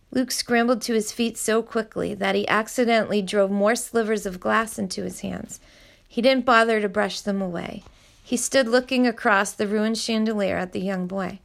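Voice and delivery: steady read-aloud storytelling; story narration. A narrator's reading. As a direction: read the chapter to your listeners evenly. Reads a novel chapter aloud.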